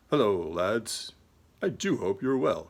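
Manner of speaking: lightly imitated British greeting, drawn-out first words; John Robson's British accent. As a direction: imitate a British YouTuber's slow hello to viewers. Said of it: "So he's got the British accent".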